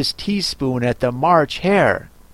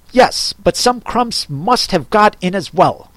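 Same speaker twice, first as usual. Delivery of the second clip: grumbling Hatter; 6 semitones higher than usual. Acted. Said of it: "the Hatter grumbled".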